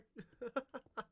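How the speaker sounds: high, light giggle; real laugh. Real, not acted. Speaker apologizing for dumping information on a child, high giggle. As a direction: giggle after your own apology.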